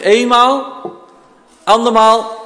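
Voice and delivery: going once, going twice call; drawn-out auction call; auctioneer. Real, not acted. (veilingmeester die afroept)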